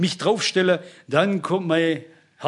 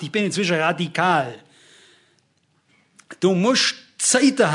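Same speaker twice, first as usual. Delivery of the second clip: emphatic preaching; 3 semitones higher than usual. Real, not acted. Preacher urging believers to withdraw and rest before God, emphatic preaching. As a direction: preach it with weight, stretching the key words.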